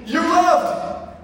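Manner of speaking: high, squeaky timid blurt. Retold or imitated. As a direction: blurt it out nervously. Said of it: "I was just like".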